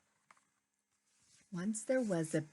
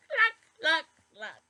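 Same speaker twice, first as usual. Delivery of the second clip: high, loud clucks fading off; hen clucking; 9 semitones higher, 7 dB louder than usual. Acted. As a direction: cluck like a hen, then trail away. Hen answers.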